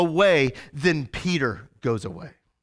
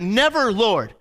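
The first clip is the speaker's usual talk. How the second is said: Peter's bold promise; 2 semitones higher than usual. Retold or imitated. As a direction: swear loyalty with swagger. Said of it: "He's like".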